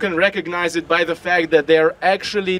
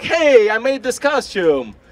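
slow, higher, drawn-out hey; hopeful showing off; 4 semitones higher, slower than usual. Acted. Costume maker looking for affirmation, proud announcement. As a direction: show it off, fishing for praise.

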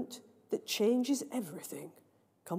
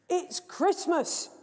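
slow, higher, patient repetition; stating the obvious; 7 semitones higher, much slower than usual. Acted. MC to booing children, slow obvious. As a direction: spell it out slowly. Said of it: "as though repeating the obvious".

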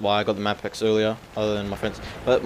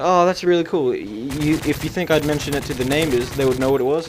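excited lady voice; 3 semitones higher than usual. Retold or imitated. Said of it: "She's like".

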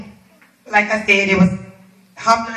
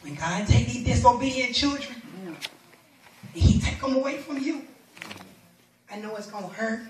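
soft, grave pastoral appeal; hushed solemn preaching; 2 semitones lower, 9 dB quieter than usual. Real, not acted. Preacher gently warning parents about disobedient children, hushed and solemn.

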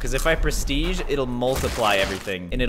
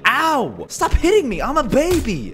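mock baby whine; 12 semitones higher, 5 dB louder than usual. Car hits his giant baby.

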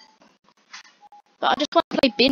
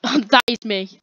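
laughing; 7 dB louder, slower than usual. Real, not acted. Laughing at her own character.

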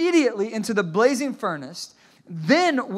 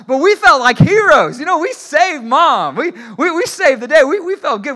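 triumphant; 7 semitones higher, 9 dB louder than usual. Real, not acted. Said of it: "I'm having fun".

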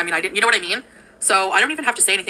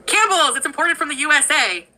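excited hype; 7 semitones higher than usual. Acted. Hyping imported soup.

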